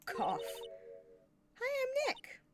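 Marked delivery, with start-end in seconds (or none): 1.6-2.4 too-quiet test into the mic; soft hello. Shown as a demonstration. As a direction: say it normally, not loud enough to trigger it. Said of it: "not saying it loud enough".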